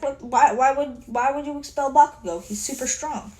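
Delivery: stumbling, incredulous mock questioning; confused. Classmates asking why Bakugo would be expelled, confused. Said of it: "Everyone is really fucking confused".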